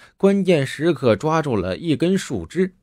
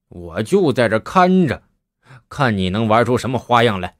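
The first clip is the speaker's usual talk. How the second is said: cold sneer; 3 semitones lower than usual. Acted. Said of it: "就冷笑道".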